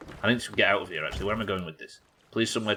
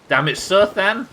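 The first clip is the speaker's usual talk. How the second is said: mock exasperated cry; 10 semitones higher, 7 dB louder, slower than usual. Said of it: "it was".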